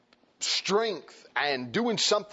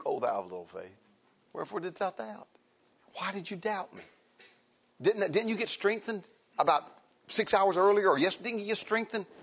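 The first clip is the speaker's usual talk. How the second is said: gentle rebuke; 5 semitones higher than usual. Acted. The Lord to a doubting believer, gentle rebuke. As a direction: scold kindly, like a patient father. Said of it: "gentle rebuke".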